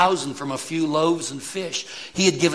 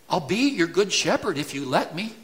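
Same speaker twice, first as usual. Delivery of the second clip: tentative misquote; 4 semitones higher than usual. Shown as a demonstration. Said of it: "Is that what he says?".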